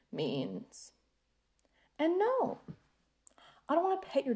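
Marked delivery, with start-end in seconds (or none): 0.1-0.9 whispered innuendo; conspiratorial whisper; knowing whisper. Acted. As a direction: drop to a hush on the punchline. Innuendo about the dog.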